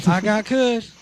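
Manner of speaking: lightly voiced old lady; a hint of an old lady dealer.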